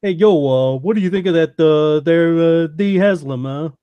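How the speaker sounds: a hint of New York street guy; lightly voiced Jersey tough asking. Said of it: "Ask the New York guy".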